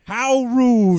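Stephanie Tanner. Retold or imitated. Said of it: "that's a great voice. That's Stephanie Tanner".

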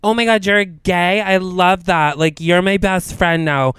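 a touch of overeager gush; gushing girl. Retold or imitated. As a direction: gush like a fangirl. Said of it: "girls that I've met that are like".

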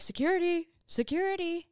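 high, singled-out "security" call; put-on high calling voice; imitated door call. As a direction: mimic guards announcing themselves at the door.

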